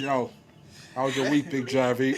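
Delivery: lightly put-on podcast host voice. Shown as a demonstration. Host greets co-host by nickname, podcast voice. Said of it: "Let me put my podcast voice on".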